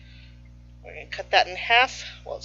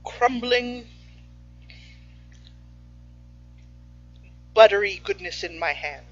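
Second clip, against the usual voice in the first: poem recitation; 4 semitones lower, 9 dB quieter, slower than usual. Shown as a demonstration. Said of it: "That was terrible".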